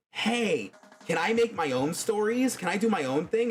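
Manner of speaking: pleading excitedly; eager high asking. Retold or imitated. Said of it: "They were telling me".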